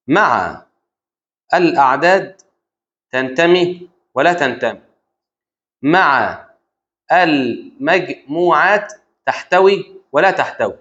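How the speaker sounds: word by word with long pauses; slow dictation. Shown as a demonstration. Teacher dictating a rule to the student, slow dictation. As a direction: dictate it slowly, piece by piece.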